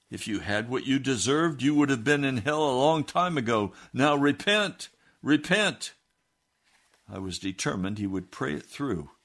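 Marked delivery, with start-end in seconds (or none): 0.1-5.9 higher, louder insistence to repent; stern urging. Retold or imitated. Preacher pressing Jim to repent, raised and insistent. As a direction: drive the call home.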